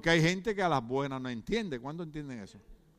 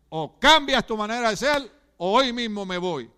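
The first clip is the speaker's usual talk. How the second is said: wife standing her ground; 4 dB louder than usual. Retold or imitated. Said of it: "Usted le dice".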